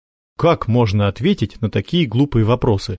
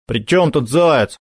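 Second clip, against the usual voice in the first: dismissive; 5 semitones higher, slower than usual. Acted. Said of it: "отмахнулся Макар".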